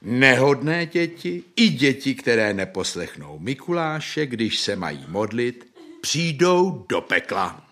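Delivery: lightly voiced preaching saint; a hint of solemn threat; Saint Nicholas's warning. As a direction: warn a child, drawing out the last words. Mikuláš threatens the child with hell.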